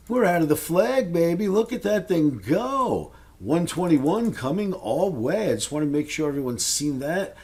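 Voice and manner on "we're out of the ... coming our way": excited. Real, not acted. Hyped about breakout chart.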